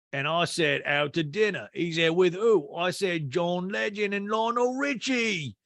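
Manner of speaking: slow, high-rising anecdote in imitation. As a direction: mimic a man building to his punchline. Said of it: "So P K goes".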